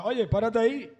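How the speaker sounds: retold voice shouting a command; called out shout. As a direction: shout it across the beach to halt him. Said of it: "esta voz me gritaba nuevamente".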